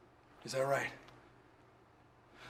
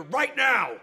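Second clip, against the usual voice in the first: shouting; 7 semitones higher, 3 dB louder than usual. Acted. Cop threatening suspect.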